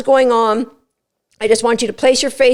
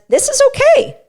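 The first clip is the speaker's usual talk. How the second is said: dog's voice. Retold or imitated. Voicing the dog's thoughts.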